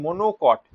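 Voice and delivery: "মনোকট" slowly, as mono and kot; syllables drawn out. Shown as a demonstration. Teacher giving students a memory trick, "মনোকট" slowly in parts. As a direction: stretch "মনোকট" so both parts are counted. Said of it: "এটা কটা syllable?".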